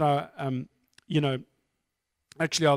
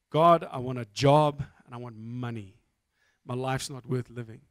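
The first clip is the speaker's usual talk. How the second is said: retold mild self-pity, pitched low; miserable prayer; 5 semitones lower than usual. Man praying to God leaving the bank, mildly miserable. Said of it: "I'm miserable".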